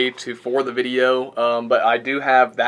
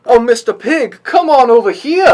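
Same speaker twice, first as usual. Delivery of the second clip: southern belle; 10 semitones higher, 7 dB louder than usual. Retold or imitated. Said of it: "She's talking like a Southern belle".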